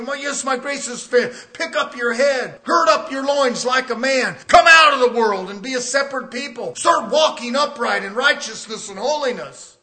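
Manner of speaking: rising to a full preaching shout; God's commanding voice. Retold or imitated. Preacher voicing God to the congregation, commanding shout. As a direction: thunder the commands like God rebuking his people. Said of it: "that's the way he speaks".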